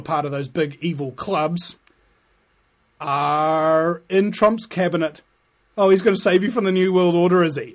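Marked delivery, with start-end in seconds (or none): 5.8-7.7 sarcastic. Acted. Mocking Trump fans sarcastically.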